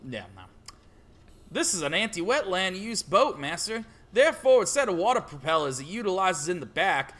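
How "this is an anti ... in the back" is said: stereotype farmer impression; lightly voiced country farmer. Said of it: "farmer stereotype impression".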